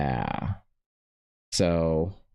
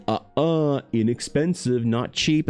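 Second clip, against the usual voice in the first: a lightly voiced old man correcting a kid, a bit higher; scolding old man; 6 semitones higher, slower than usual. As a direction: wag a finger with a hint of fussy old man. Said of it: "waggled his finger at you and was like".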